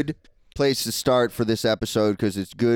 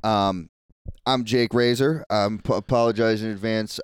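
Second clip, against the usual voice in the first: swollen tonsils voice. Real, not acted. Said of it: "I have a sore throat".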